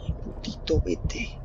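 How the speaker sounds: a light, slowed mock Mexican accent. Gamer taunting the monster in a mild Mexican accent. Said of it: "Ha entrado el acento mexicano".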